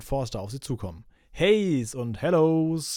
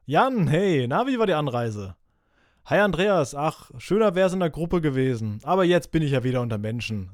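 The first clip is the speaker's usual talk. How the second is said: warm greeting; 3 semitones higher, 5 dB louder than usual. Acted. Greeting at door.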